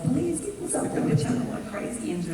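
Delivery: high, fast, eager plea; excited plea. Retold or imitated. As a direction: beg for it with giddy energy. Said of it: "And I was like".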